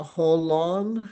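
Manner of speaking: "holon" opened with an audible H; drawn-out "holon", starting on H; H sound at the start. Shown as a demonstration. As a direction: sound out the rough breathing in "holon". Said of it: "merong H sound sa simula".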